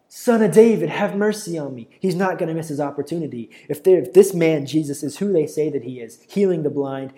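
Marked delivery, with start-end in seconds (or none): 0.1-1.9 loud, high-pitched call for mercy; crying out. Acted. Blind man who cannot see begins calling, crying out. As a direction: cry out high, then ease down. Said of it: "he begins to cry out".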